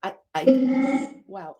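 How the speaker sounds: choked up and fighting tears; real tears. Real, not acted. Talking to the spirit of Naziah, really in tears. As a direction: voice catching, close to crying. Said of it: "I literally have tears".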